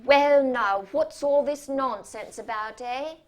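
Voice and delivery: hammed-up bedside manner for difficult children; patronizing voice. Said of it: "in that voice he uses for old ladies and difficult children".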